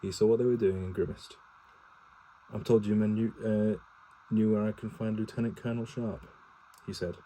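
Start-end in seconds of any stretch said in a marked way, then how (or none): 2.5-6.3 crisp, louder officer's address. A narrator's reading. Cavalry officer asks soldiers for their colonel, crisp. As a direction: project it crisply, as to subordinates. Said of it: "He had a crisp voice".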